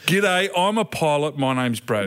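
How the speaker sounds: drawn out, proud of being a pilot; slow smug pilot intro. Retold or imitated. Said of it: "he introduces himself to someone new at the bar".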